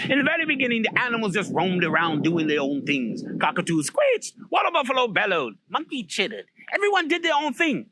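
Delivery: lively, swinging storyteller delivery; animated storytelling. A narrator's reading. Storyteller opening a tale of the first animals, animated. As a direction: tell it big, stretching the animal sounds.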